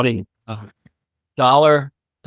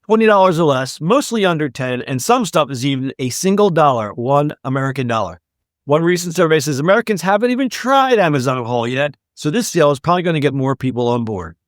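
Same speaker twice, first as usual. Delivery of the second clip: lively podcast news read; scripted segment read; 2 semitones higher than usual. Acted. Host presents the sale story to listeners, scripted read. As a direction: read the story out with upbeat emphasis.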